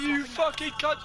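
fast hammed-up picking a fight; mock aggressive challenge. Player squaring up to a mate over voice chat, mock aggressive. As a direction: bark it like a pub brawler.

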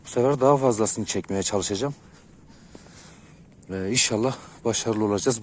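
shivering voice, teeth almost chattering; trembling voice. Real, not acted. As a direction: voice shaking from the cold. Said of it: "konuşurken biraz sesim titriyor".

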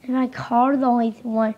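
ordinary talk, nothing marked

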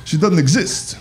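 stand-up character impression with jittery interjections; Rodney Dangerfield. Comic greets Austin in his favorite character, impression. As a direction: toss out one-liners as a borrowed comic persona. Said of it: "This is gay Rodney Dangerfield".

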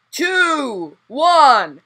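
loud starting shout; race countdown shout. Real, not acted. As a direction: call the start.

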